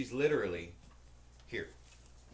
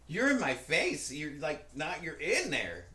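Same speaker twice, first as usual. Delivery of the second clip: retold confrontation; 5 semitones higher, 5 dB louder, slower than usual. Man confronts girlfriend, acted.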